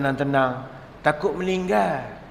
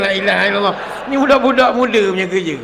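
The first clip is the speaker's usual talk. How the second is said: exasperated exclamation; 3 semitones higher, 4 dB louder, faster than usual. Real, not acted. Exasperated at young couples' antics.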